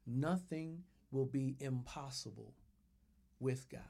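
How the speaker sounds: soft, fading to a whisper on the end; whispered affirmation. Shown as a demonstration. Pastor whispering the verse as a personal affirmation. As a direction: breathe it to yourself. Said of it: "I want you to say it".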